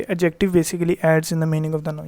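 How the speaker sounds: slow, deliberate dictation of the rule; teacher dictating a rule to learn by heart; slow definition to memorise. Shown as a demonstration. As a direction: spell the rule out slowly so they remember it. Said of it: "बस इतना याद रख लीजिए".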